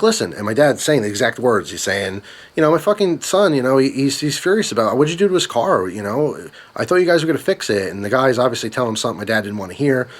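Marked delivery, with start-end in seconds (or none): 0.0-0.3 higher-pitched, exasperated appeal; retelling a frustrated father's opening; frustrated dad. Retold or imitated. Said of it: "my dad was frustrated talking to him". 2.6-7.9 higher-pitched retold complaint; mildly indignant protest, pitched up; frustrated dad. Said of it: "my dad was frustrated talking to him".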